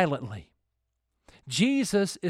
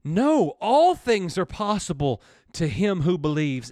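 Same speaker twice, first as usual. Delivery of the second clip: bold declaration; 5 dB louder than usual. Retold or imitated. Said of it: "Jesus said".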